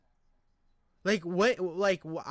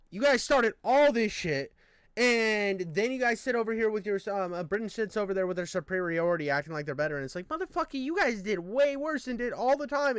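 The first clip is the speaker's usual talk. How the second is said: mock angry rant; 2 semitones higher than usual. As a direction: snap it out like you're scolding the British. Angry rant quoted at the British.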